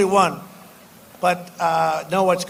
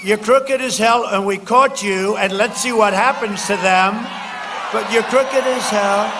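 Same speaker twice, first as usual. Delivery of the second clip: retold angry retort. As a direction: fling the accusation. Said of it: "I said".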